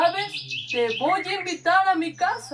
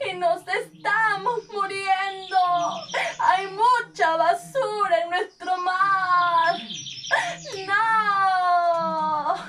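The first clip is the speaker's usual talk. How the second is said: crying out; 2 semitones higher, slower than usual. Acted. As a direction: cry out in despair. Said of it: "unos peces están llorando".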